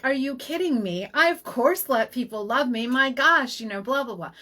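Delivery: incredulous mock protest, pitch jumping then trailing off; laughing disbelief. Retelling her reaction to the practitioner's remark, mock laughing disbelief. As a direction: scoff it off as if amused. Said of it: "And I start laughing".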